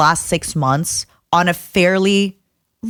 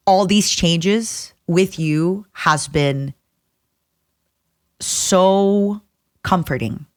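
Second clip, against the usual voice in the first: holding back tears; much slower than usual. Real, not acted. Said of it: "sorry, I'm crying".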